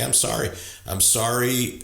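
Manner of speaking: a plain, earnest "I'm sorry." that fully owns it; mean every word of "I'm sorry."; sincere apology. Shown as a demonstration. Coach shows how to really own it, sincere. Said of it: "Just say".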